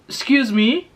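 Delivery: puzzled, asking for a repeat; baffled query. Retold or imitated. Newcomer to a lady whose words she missed, baffled query. Acting her baffled reply to receptionist.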